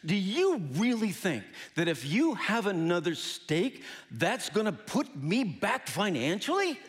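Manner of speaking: imitating a doctor's mild rebuke; stern, almost angry. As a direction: lay it out firmly, with restrained irritation. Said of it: "with a stern, almost angry face and said".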